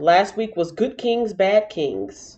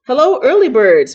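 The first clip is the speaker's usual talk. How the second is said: high loud cheerful hello; cheerful greeting; 6 semitones higher, 7 dB louder than usual. Real, not acted. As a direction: greet them brightly and loud. Greeting viewers brightly.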